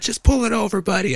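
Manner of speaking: lightly put-on cop pulling someone over; imitated cop order. Cop orders a driver to pull over, mock-officious.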